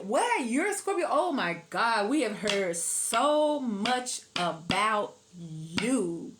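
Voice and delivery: a hint of awestruck friend, drawn out; mock surprised gush. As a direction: play the wide-eyed fan meeting a celebrity. Friends react meeting Scorpio.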